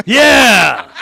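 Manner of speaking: loud, high drawn-out yeah; real rowdy cheer; excited whoop. Real, not acted. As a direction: holler a big whooping yeah. Whooping after the catchphrase.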